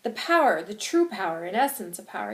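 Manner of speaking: loud impassioned oratory; angry, passionate. Acted. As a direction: declare it forcefully to a crowd. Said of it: "I'm very angry and I'm very passionate".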